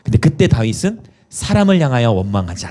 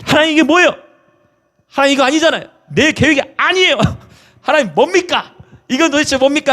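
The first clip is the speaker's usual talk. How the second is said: high, indignant pleading at God; preacher acting out an exasperated prayer, high and pleading; complaining prayer; 13 semitones higher than usual. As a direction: protest to God like a wronged child, voice pitched up.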